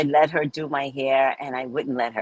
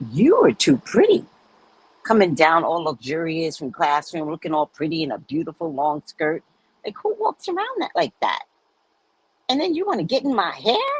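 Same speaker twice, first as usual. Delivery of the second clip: mock scolding; 2 semitones higher than usual. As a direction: scold her, half joking. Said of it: "she was like".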